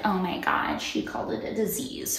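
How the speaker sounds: hushed mock shock; fake-scandalized whisper; mock gasp. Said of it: "it's supposed to be like".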